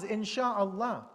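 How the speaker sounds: "Insha'Allah" drawn out slowly for weight. Shown as a demonstration. Teacher quoting the verse's ending, slow and weighty. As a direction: land "Insha'Allah" slowly, as the key word. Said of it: "But Allah adds".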